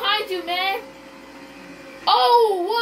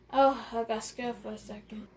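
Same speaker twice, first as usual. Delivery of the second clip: whisper; 5 semitones lower, 7 dB quieter than usual. Real, not acted. Startled in the race.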